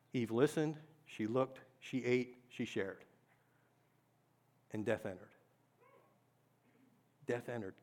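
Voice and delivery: soft, low, heavy words; solemn. Acted. Preacher tells the fall to the congregation, softly solemn. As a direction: let each beat fall quietly.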